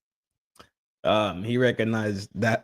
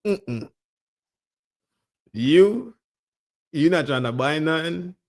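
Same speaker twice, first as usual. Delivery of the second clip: imitating a refusing grandma, pitched up; a hint of grandma, higher, repeated noes; lightly voiced grandma; 6 semitones higher than usual. Grandma turning people away, lightly voiced refusal. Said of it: "Grandma said".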